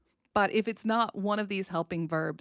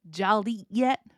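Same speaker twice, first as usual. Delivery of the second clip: Southern dialect; 5 dB louder, slower than usual. Shown as a demonstration. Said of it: "It is a very Southern word".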